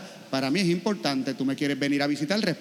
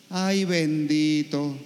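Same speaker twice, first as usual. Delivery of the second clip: slow, drawn-out pity over the ay; sighing ay, bendito, stretched out; mock pity for the young seminarian; 3 semitones lower, much slower than usual. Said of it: "Le dio pena conmigo".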